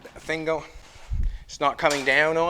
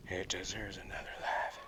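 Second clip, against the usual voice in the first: much lower and much softer, a deep hushed line; odd low voice; 8 semitones lower, 15 dB quieter than usual. Real, not acted. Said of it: "I don't know why I'm talking like that".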